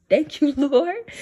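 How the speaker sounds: slow, laughing through the words; gleeful thanks to the Lord; giggly grateful. Real, not acted.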